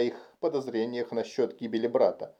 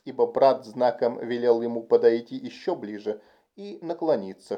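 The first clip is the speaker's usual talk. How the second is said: plain reading voice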